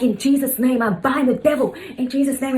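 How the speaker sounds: mock a mother binding the devil in prayer; imitated praying mother. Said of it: "And she's like".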